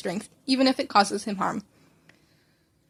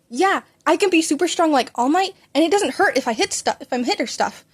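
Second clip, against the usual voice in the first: eager boast; 5 semitones higher, 4 dB louder than usual. Acted. Child boasting to friend.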